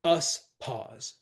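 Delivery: "Us pause" as one measured foot; separated foot. Shown as a demonstration. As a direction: set "Us pause" apart as two beats. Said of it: "that's a foot".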